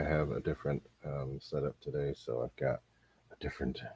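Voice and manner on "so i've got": ordinary talk, nothing marked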